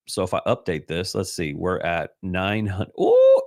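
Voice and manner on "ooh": excited ooh. Real, not acted. Excited reaction to subscriber count.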